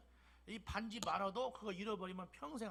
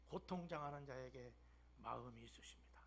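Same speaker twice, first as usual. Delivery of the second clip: tender whisper; 7 semitones lower, 7 dB quieter than usual. Acted. Preacher softly telling congregation of God's heart, whispering. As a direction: drop to a soft hush.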